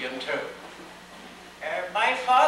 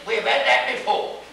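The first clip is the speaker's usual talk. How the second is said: indignant; 3 semitones higher, 4 dB louder than usual. A narrator's reading. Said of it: "bellman indignantly said".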